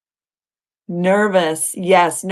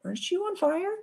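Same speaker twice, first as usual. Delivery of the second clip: high, soft incredulous voice, a mild tease; gently mock her own past self; mock self-questioning; 4 semitones higher, 4 dB quieter than usual. High quiet mock of her past self. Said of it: "when I'm like".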